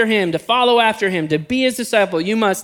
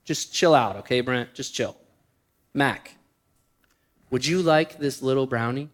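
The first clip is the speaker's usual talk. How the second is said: sister-in-law calming; 6 semitones lower, 5 dB quieter than usual. Retold or imitated. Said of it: "She looks at me and she says".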